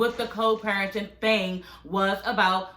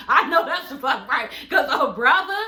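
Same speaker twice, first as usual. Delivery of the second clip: laughing disbelief; 2 semitones higher, 3 dB louder than usual. Retold or imitated. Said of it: "I said".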